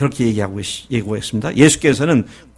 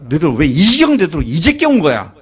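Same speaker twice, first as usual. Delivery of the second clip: exasperated scolding; 4 dB louder than usual. Retold or imitated. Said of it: "그랬을 것 같아요".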